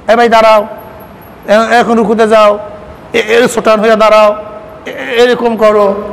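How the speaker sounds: a hint of a teacher calling out steps; lightly voiced instructor drilling a student; mock prayer teacher. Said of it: "নামাজ শিক্ষা দেওয়ার জন্য বিভিন্ন কৌশল".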